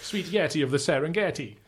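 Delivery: put-on a terrible Jamaican accent on purpose. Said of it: "This is a terrible Jamaican accent".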